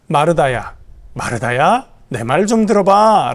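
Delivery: gently calming her down, unhurried. Acted. Jesus calming the upset Martha, gentle and soothing. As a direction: soothe her, ask her to listen. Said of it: "진정시키고 계신 겁니다".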